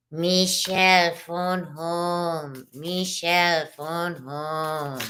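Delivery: very slow, lightly voiced alien croak; alien catchphrase. Teasing viewer Michelle with a slow, mock alien voice. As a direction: drag out each word like a stranded alien.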